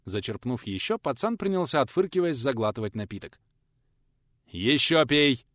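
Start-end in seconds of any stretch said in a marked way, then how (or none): 4.5-5.4 louder stern command on ещё; gruff teacher forcing the drink; gruff order. Acted. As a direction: press him to drink more. Teacher forces more again.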